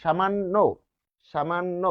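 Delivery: "সামান্য" as shamanno, ending in o; demonstrated pronunciation. Shown as a demonstration. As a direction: model "সামান্য" with double n and final o. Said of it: "ও হয়েছে।".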